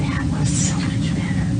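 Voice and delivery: whispering. Real, not acted. Praising child quietly.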